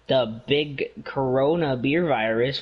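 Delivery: slow, knowing sarcastic drawl. Shown as a demonstration. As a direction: say it with a wink. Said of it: "wink, wink, wink, air quotes".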